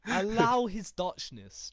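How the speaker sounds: slow, loud, drawn-out mock plea; mock pleading. Gamer defending Dutch video guy, mock plea. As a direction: beg them to go easy on him.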